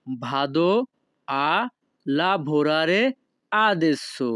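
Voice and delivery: each word of "Vado a lavorare adesso." set apart by pauses; slow separated words for a class. Shown as a demonstration. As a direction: break the sentence into single words. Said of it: "তখন আপনাকে বলতে হবে".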